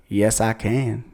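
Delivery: slow country-twang American impression; British man asked for an American accent answers, mock country drawl. Lightly mocked redneck American accent. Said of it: "it's always, like, very country".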